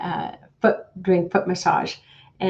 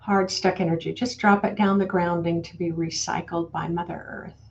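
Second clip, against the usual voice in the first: guided meditation. Acted. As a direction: talk the group gently down into their bodies. Leads a grounding meditation.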